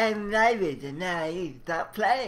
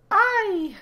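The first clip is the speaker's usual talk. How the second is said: pirate shout; 13 semitones higher, 5 dB louder than usual. Acted.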